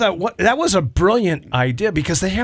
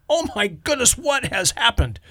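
shocked; 8 semitones higher, 3 dB quieter than usual. Retold or imitated. Shocked reaction retold.

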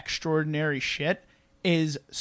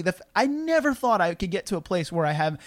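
ordinary delivery

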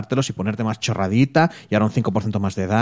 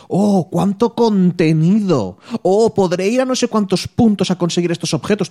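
mock excited; 7 semitones higher, 4 dB louder, slower than usual. Imagined gamer's excited thoughts.

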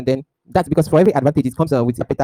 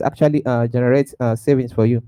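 corrupted glitchy audio. Real, not acted. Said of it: "Audio is cutting out".

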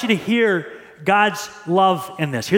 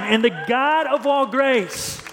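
higher, slow reading; 4 semitones higher, slower than usual. Shown as a demonstration. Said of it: "One more time".

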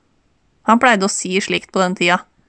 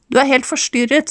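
shouting; 4 semitones higher than usual. Acted. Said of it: "skrek Erik".

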